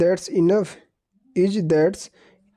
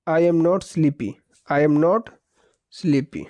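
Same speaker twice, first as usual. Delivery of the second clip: slow dictation; much slower than usual. Shown as a demonstration. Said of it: "मुझे नींद नहीं आ रहा है".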